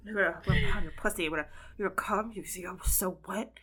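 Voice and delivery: lightly imitated creepy caller; hurried, hint of a mouth-breathing creep; mouth breather. Co-host repeating the obscene caller bit, mouth breather. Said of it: "told her to do an accent".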